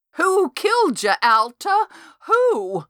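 high, urgent questions to the ghost; frantic calling out. A narrator's reading. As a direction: demand an answer, fast and high. Friend shouts at the ghost.

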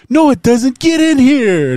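very high, loud mock outburst; shrieked imitation of her insistence; retold lady's yell. Lady arguing back at the dude, high mock yell. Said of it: "that lady that was talking, she was like".

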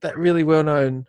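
hammed-up South African accent fishing for a place name; playful mock South African accent, slowing on surf spot. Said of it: "own version of ... South African accent".

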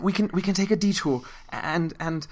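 a hint of holding back tears; tearful pleading. Guide Arix begs the party to take a detour, mildly tearful. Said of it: "this whole time Arix has sort of been crying".

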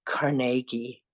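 "Carnegie" with stress on NAY; variant pronunciation. Real, not acted. Correcting herself on the college name, "Carnegie" said car-NAY-gie. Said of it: "still haven't learned how to say".

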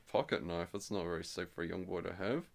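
a touch of stern fatherly concern; lightly stern dad. Retold or imitated. Co-host voicing dad about the pocket knife, mildly stern. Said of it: "looking really sternly".

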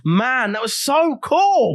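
sarcastic. Real, not acted. Sarcastic nostalgia.

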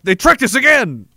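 mildly acted frustration; mock exasperation. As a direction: play a foiled raider, pitch lifted. Acted dismay of the fooled team.

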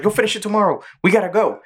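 high, pushy mock woman's voice; impatient woman. Retelling the show, a lady hurries the repairman, high pitched. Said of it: "she's like".

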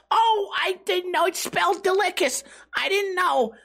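put-on high, whiny kid complaining; indignant kid voice. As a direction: play a hurt little kid. Kid self reply.

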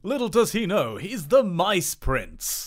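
very slow, dramatic reveal; hammed-up trailer voice; mock trailer narrator. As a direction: draw out the twist like a voice-over.

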